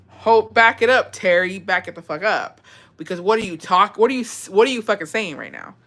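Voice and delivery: can't believe what she's reading; incredulous. Real, not acted. Disbelief at the secret.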